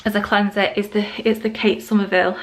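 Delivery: slightly winded, catching breath. Real, not acted. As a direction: talk while short of breath. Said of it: "I'm so out of breath".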